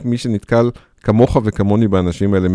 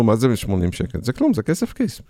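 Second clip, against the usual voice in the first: a lightly voiced dismissive clerk, pitched up; dismissive scoff; 2 semitones higher, 3 dB quieter than usual. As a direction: brush off the sum like pocket change. Clerk quoted dismissing eighty shekels.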